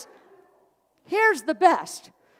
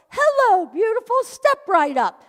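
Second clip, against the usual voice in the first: cashier greeting; 7 semitones higher, 4 dB louder than usual. Retold or imitated. Cashier greeting, second time.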